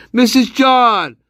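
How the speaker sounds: slow, drawn-out call of the name. Real, not acted. Gamer calls out to a character mid-game. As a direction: call the name across the room.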